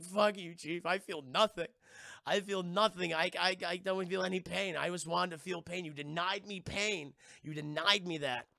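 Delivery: retold anguished accusation; bitter defiance. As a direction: throw the blame at the chief. Wounded man rages at chief.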